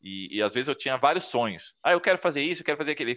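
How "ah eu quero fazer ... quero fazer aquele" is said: eager dreaming. Retold or imitated. Retelling his own eager dreams.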